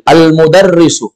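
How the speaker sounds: slow, clear Arabic reading; model reading. Shown as a demonstration. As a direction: read it slowly for students to repeat. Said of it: "kita ikuti lagi". (bacaan contoh pelan dan jelas)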